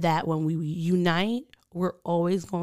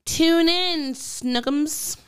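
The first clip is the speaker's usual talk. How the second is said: playful sign-off; 7 semitones higher, 4 dB louder, much slower than usual. Acted. Host signing off playfully.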